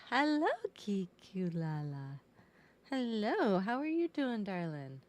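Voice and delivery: high, bright hello; cooing hello; sing-song greeting. Real, not acted. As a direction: greet them up high and sweet. Greeting viewer sweetly.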